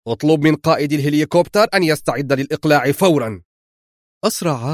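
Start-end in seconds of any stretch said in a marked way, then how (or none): 0.1-3.4 fast, loud command to the camp commander; barked order. Acted. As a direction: snap the order out quickly. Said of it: "وصاح في وجه قائد المعسكر". (أمر صارم سريع بصوت عالٍ)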